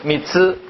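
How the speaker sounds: 미츠 ending between 스 and 쯔; 츠 in 미츠 neither plain s nor hard jj; difficult Japanese tsu. Shown as a demonstration. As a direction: model 미츠 for learners, with a Japanese tsu. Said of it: "요 발음 어렵죠?".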